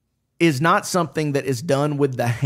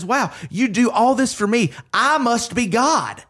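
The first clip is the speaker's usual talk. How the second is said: a self-satisfied cat taking it all for granted; smug cat; 7 semitones higher than usual. Retold or imitated. The cat being fed and cared for, smugly higher. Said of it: "the cat looks at you and says".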